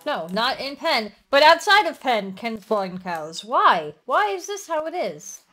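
loud, broken-grammar exasperation; exasperated rage. Real, not acted. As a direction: demand an answer from the unfair game. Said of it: "losing her use of prepositions in rage".

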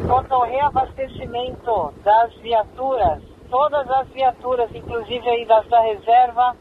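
crackly two-way radio transmission; squelchy handheld radio; police radio. Real, not acted. Dispatcher reads order over radio.

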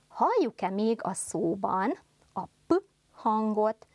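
normal talking voice

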